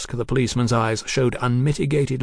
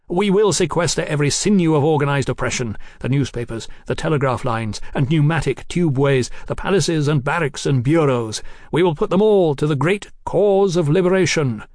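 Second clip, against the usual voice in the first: emphatic list swelling to a louder close; fanatic Marquis oratory; 4 semitones higher, 4 dB louder than usual. Acted. Marquis vowing to seize everything, fervent and declamatory. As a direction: proclaim it like a manifesto.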